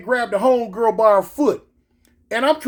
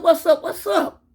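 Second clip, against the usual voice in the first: high, urgent questioning; retold startled question, pitched way up; acted alarmed reply; 7 semitones higher than usual. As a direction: answer a sudden call in alarm.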